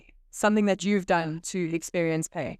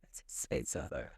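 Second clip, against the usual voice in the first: whispering; 15 dB quieter than usual. Real, not acted. Whispered aside about cost.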